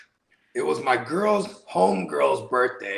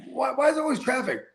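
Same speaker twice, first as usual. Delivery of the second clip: high, fast whiny complaint; mock whiny passenger; 11 semitones higher, faster than usual. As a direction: whine it like a spoiled passenger. Quoting a rich tourist's complaint.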